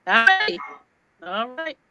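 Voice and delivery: glitchy, robotic call audio. Real, not acted. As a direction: voice breaking up like a robot. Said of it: "Nikki, you sound robotic".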